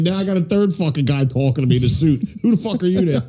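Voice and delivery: high, exasperated outburst; fed up with yet another guy; agitated. Retold or imitated. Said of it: "he's really fucking agitated".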